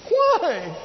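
mock wail, pitched high, "Why" repeated; imitating someone railing at heaven; accusing cry. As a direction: cry out at God with a shaken fist. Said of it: "shake a fist and go".

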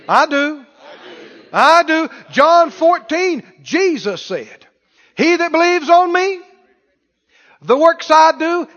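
high, loud, hammering preacher call; full-force preaching. Acted. Preacher calling out to the congregation, full force. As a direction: drive it home to the church.

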